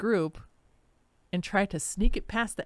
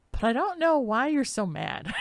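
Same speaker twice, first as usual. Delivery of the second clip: exasperated shout; 6 semitones higher than usual. Retold or imitated. Retelling argument with angry poster.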